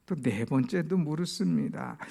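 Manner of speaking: usual speaking voice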